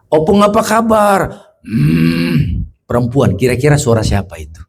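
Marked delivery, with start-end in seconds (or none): 0.1-1.2 raised-pitch, singsong how-are-you. Retold or imitated. Visitor tries the silent grandmother once more, raised-pitch greeting. Retold greeting to elderly patient. 1.6-2.7 rasping drawn-out hum in imitation; hoarse possessed hum. Possessed old woman answers how-are-you, hoarse hum. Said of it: "Suara orang serak batuk?".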